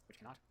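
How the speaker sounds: cannot given a light push of emphasis; stress on cannot. Shown as a demonstration. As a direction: lean on the word cannot. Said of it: "since I'm emphasizing that".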